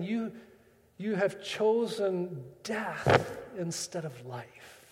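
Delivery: slow, heavy, grieving; a weary father pronouncing a loss; grave sorrow. Acted. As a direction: draw out every word like a sad verdict. God speaks judgement on corrupted people.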